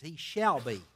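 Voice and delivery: shall be set apart firmly; stress on SHALL BE. Real, not acted. Preacher pointing out two words to underline, stress on SHALL BE. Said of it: "underline those two words".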